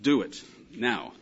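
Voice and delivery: slow, weighted imperative; emphatic command. Acted. Parent giving a last chance, slow emphatic command. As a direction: space the words out as a final order. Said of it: "It's more emphatic".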